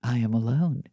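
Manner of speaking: low, stagy declaration; mock-theatrical solemn pronouncement; Beckett play line. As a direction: intone it like an actor in a bleak play. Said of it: "that line from that Beckett play".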